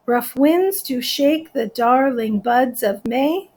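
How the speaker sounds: slow, evenly spaced syllables; measured, deliberate verse reading; counting out syllables. Shown as a demonstration. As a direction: recite it beat by beat to count them. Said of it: "Yep, another ten".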